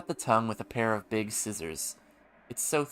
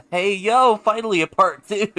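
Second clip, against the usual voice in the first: excited; 10 semitones higher, 14 dB louder than usual. Real, not acted. New game chapter appears.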